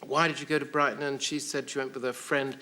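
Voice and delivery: lightly voiced distraught caretaker; a hint of the caretaker's put-on accent; Missus Sparrowhawk. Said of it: "there was Missus Sparrowhawk saying".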